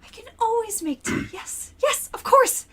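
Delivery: very high, eager to please; eager flustered mother. Acted. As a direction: rush to say yes, very high. Ronnie rushes to make tea.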